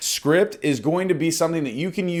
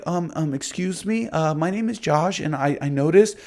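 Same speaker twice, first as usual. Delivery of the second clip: hesitant rookie caller. Shown as a demonstration. Coach imitating a nervous agent cold calling, faltering. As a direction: stumble through it like a nervous rookie. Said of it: "You have to be confident".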